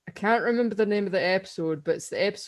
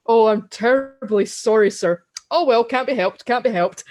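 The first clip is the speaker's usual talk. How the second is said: louder, higher brisk brush-off; Stephen Fry's Melchett; 3 semitones higher, 5 dB louder than usual. Retold or imitated. Quoting general told of fiancee's death, brisk dismissal. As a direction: imitate a general briskly shrugging off loss.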